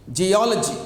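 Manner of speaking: geology with a strong "ol"; stress on second syllable. Shown as a demonstration. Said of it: "some section of the word loudly".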